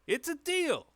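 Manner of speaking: high, loud deal-sealing cry; hearty agreement. Acted. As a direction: boom it out as you shake on it. Character heartily seals the bargain.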